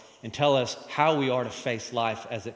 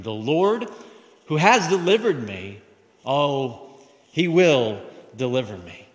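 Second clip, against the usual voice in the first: fervent proclamation; 6 dB louder than usual. Acted. Preacher proclaims the verse.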